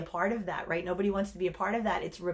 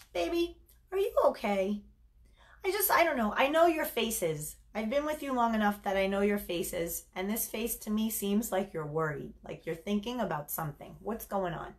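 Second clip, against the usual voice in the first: caring concern. Shown as a demonstration. Coach showing a caring partner asking her man. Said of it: "That's concern, caring".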